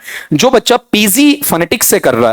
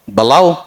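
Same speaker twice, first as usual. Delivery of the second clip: बलाओ with a light ब and a drawn-out, rising second half; iambic stress; 2 semitones lower, slower than usual. Shown as a demonstration. Teacher demonstrates an iamb aloud, बलाओ rising on its stressed second syllable. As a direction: lean into the end of बलाओ. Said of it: "बोल के बताओ".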